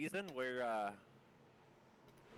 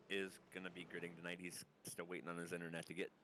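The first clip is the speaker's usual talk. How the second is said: rushing, short of breath; running out of air; 2 semitones lower, faster than usual. Real, not acted. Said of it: "about out of breath now".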